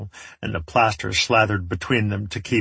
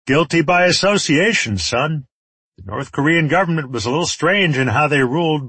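raised, higher-pitched warlord holding forth; lecturing villain; 4 semitones higher than usual. Acted. Enemy leader blames the son for the father's sins, lecturing.

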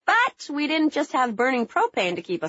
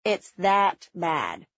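lower, very slow deadpan; 4 semitones lower, slower than usual. Retold or imitated. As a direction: say it flat and dry, unimpressed. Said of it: "said in a deadpan tone".

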